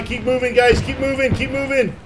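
high, loud keep moving; urgent command. Real, not acted. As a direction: push them forward, shouting. Urging squad forward.

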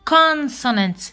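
consonant said slowly in English, stress on the first syllable; teacher saying consonant in careful English; English word consonant. Shown as a demonstration. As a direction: model consonant clearly for the class. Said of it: "Consonant معناتها الحروف ذات الأصوات".

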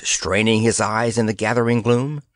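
ordinary delivery

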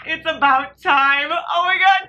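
high, loud, drawn-out cheer; excited squeal. Real, not acted. Reader cheering the long-awaited moment, excited squeal. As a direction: shout it with thrilled relief.

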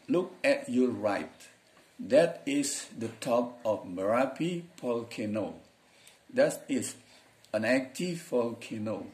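slow it right down so students can follow; slow careful reading. Shown as a demonstration. Teacher rereading the text slowly for students, slow and careful. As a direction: read slowly, word by word for learners. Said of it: "saya pelan-pelan nih".

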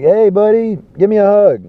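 high, loud, overly friendly buddy; mock sweet invite to hug; friendly greeting. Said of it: "He's like".

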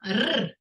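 a lone trilled "р"; isolated first sound. Shown as a demonstration. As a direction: roll "р" by itself, held. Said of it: "перший звук".

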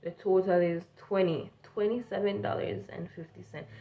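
careful standard English over a Jamaican accent; prettied-up English. Shown as a demonstration. Cashier repeating the total so customers understand, prettied-up English. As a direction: pronounce each word their way. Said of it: "if you pretty it up".

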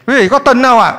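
rousing repeat of the question; insistent call. Real, not acted. Repeats question to get a response.

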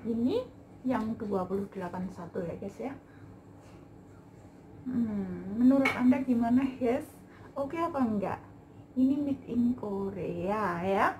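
muffled by cloth mask; speaking behind mask; through a face mask. Real, not acted. Seen 0: White mask covers her mouth and nose throughout; no mask in references.

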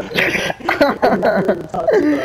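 words squeezed out through laughter; high and laughing, slow. Real, not acted. Laughing at friend's game fail.

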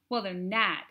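blubbering. A narrator's reading.

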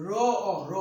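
"র অ, র" টেনে আলাদা করে বলা; "র"-এর শেষে "অ" লম্বা করে শোনাও; ধ্বনি ভেঙে উচ্চারণ. Shown as a demonstration. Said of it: "লাস্টে আবার অ আসে". ("র" আর "অ" ভেঙে উচ্চারণ)

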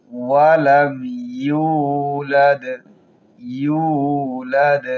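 ইয়ালিদ and ইউলাদ ending in a bounced d; qalqala on dal. Shown as a demonstration. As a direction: stop each final d with a little echo. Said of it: "ডালের উপর সাকিন আছে".

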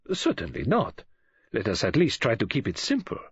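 firm, measured refusal; Poirot. Acted. Poirot answers Missus Oliver firmly.

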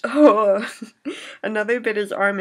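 sudden loud shocked "Oh!"; recoiling at the gory moment; shocked cry. Real, not acted. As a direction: gasp out a loud horrified oh. Reacting to dog attack.

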